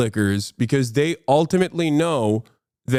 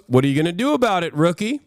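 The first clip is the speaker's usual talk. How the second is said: sergeant voice; 4 semitones higher, much faster than usual. Retold or imitated. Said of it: "the sergeant goes".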